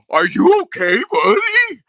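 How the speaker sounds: high, loud mock-sweet "are you okay, buddy"; mocking concern. Mocking a nosy viewer, high sugary fake concern. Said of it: "come in somebody's room and go".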